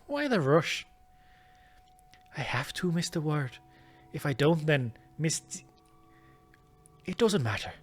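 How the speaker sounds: put-on Irish accent. Young woman tells Mister Ward she must marry, Irish accent. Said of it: "nah, I'm Irish again".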